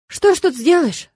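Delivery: weary sarcasm, drawn out; eye-rolling. A narrator's reading. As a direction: roll your eyes through it. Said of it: "закатила глаза Леона".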